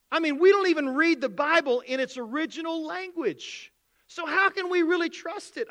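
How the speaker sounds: lightly mock the questioning doubter; a hint of an incredulous skeptic pressing the pastor; skeptic's voice. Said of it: "It goes something like this".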